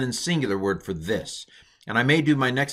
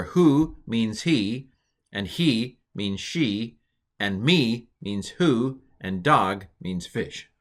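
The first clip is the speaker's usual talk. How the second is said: slow careful recitation; slower than usual. Shown as a demonstration. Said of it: "I'm pronouncing the Hebrew word and then telling you the English equivalent".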